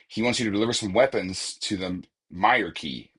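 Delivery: "Meyer" said as MY-er; "Meyer" as MY-er, key; Meyer pronunciation. Real, not acted. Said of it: "is how we're pronouncing it".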